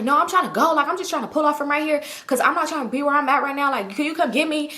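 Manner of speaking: lightly acted exasperation; irritated friend. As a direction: imitate a friend impatient to leave. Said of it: "She irritated".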